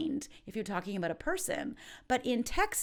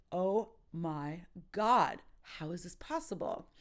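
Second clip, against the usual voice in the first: disbelief; 2 semitones lower than usual. Shown as a demonstration. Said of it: "Or just disbelief".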